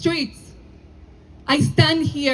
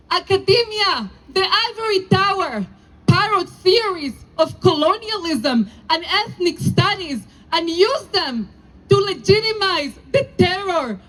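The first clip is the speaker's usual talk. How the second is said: indignant rally oration. Real, not acted. Rabbi to the rally crowd, indignant and emphatic. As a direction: hammer each how dare at the crowd.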